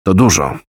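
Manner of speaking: each word given a light, deliberate weight; stressing it. Acted. The general stresses the loss to Kelly, firmly. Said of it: "podkreślił".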